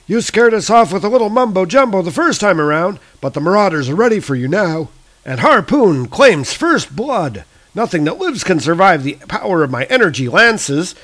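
high, loud snarling villain taunt; Harpoon villain voice. Acted. Harpoon taunting Thor before the attack, high loud villain voice. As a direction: hurl the threat high and loud. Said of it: "he or she is saying".

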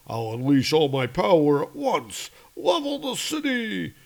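villain's voice. Acted. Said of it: "He's like".

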